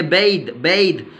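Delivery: "बेद" with a gliding ए and voiced द; ए glide, final द. Shown as a demonstration. Teacher models the rule's example word, ए glide and द. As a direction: glide through ए in "बेद", end on द. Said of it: "ए glide आ रहा है".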